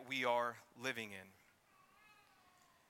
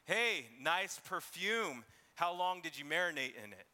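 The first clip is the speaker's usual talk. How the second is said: sarcastic compliment, dripping scorn; 3 semitones higher than usual. Shown as a demonstration. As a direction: drag it out with a sarcastic sneer. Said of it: "here's an example of sarcasm".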